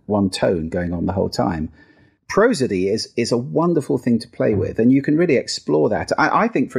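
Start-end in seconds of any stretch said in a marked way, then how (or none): 0.0-1.7 one tone held through the whole phrase; monotone. Shown as a demonstration. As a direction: keep it level on one low note. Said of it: "It's monotone".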